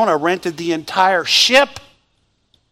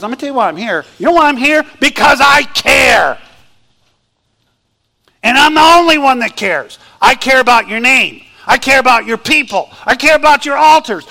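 Elijah's indignant outburst; 3 semitones higher, 3 dB louder than usual. Acted. Elijah telling God why he is there, raised and indignant. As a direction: shout your devotion back at God.

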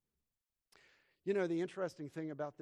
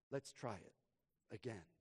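soft, lower gentle father; gently; 3 semitones lower, 6 dB quieter than usual. Acted. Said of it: "my father said gently".

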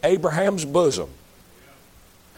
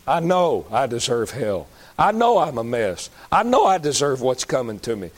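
humble prayer; 4 semitones lower than usual. Pretend. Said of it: "Cry out to God and say".

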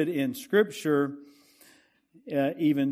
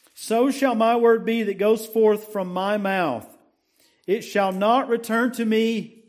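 raised, declaiming verse reading; preached scripture recitation; 2 semitones higher than usual. Acted. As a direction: proclaim the verse to the congregation.

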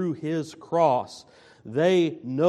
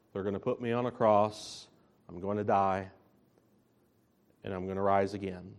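quiet; 6 semitones lower, 6 dB quieter, faster than usual. Acted. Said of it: "what has he repeatedly been telling them".

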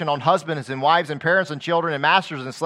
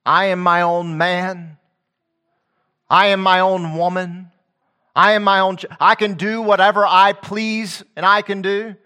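self-important; 5 semitones higher, 7 dB louder than usual. Retold or imitated. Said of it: "says to others".

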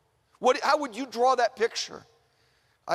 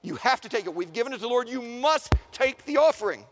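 insistent entreaty. Acted. Macedonians urge Paul to accept their offering, insistent and building. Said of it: "praying him with much entreaty".

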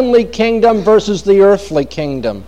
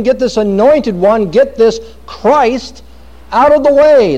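raised, scornful rebels sneering at God; defiant nations mocking; 5 semitones higher than usual. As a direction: sneer it out like proud rebels waving off their maker. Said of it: "the nations say".

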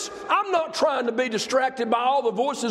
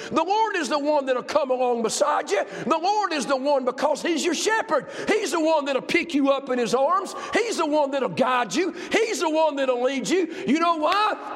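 climactic preaching; 2 semitones higher than usual. Acted. Preacher promising the Lord will carry you, fervent. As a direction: build the church toward the peak.

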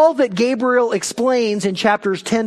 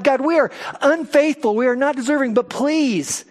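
pleading prayer; 5 semitones higher than usual. Retold or imitated. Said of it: "he's cried out to God".

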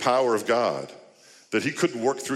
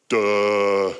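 mock duh; 2 semitones lower, 6 dB louder than usual. Disciples mocked as slow.

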